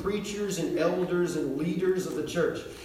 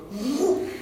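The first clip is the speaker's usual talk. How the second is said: quick raised whoop; imitated whoop; 8 semitones higher than usual. Crowd rushing round the preacher, imitated whoop. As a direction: whoosh of a crowd closing in.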